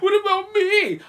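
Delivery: high-pitched, drawn-out mock whine; mimicked movie line. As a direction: stretch it out way up high. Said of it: "He goes".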